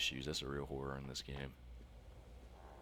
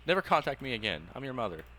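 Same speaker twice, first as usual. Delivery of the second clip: loud, higher, haughty mock of mom; mocking mother voice; 9 semitones higher, 9 dB louder than usual. Player parodying the estranged mother, loud haughty mockery. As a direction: parody her cold dismissal, overplayed.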